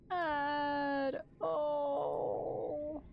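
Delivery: choked-up cry of Dad; teary call for the father; tearful. Real, not acted. Emotional reunion in game.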